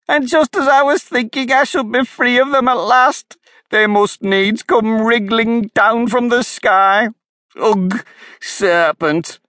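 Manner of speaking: high, loud, rising shriek. A narrator's reading. Pigeon shrieks at Alice about serpents from the sky. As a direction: wail it out, outraged. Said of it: "raising its voice to a shriek".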